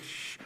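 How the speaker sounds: fly buzz. Retold or imitated. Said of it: "some fly would be like".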